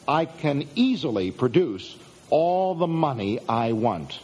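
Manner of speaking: measured, spaced out, with weight on "easily"; deliberate statement. Shown as a demonstration. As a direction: present it slowly, pausing before "all the money I want". Statement first presented, slowly and deliberately.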